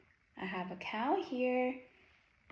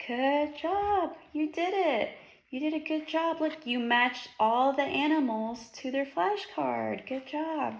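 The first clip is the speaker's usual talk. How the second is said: excited praise; 3 semitones higher than usual. Acted. Praising child after task.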